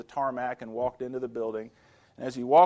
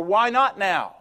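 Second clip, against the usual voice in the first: louder, higher demanding question; pleading why now; 6 semitones higher, 7 dB louder, slower than usual. Retold or imitated. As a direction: press God for an answer.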